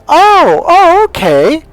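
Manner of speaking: put-on very high, loud girlish "oh"; imitated dawning realisation. Goddaughter suddenly grasps the new meaning, imitated bright realisation. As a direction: squeal it as the penny drops.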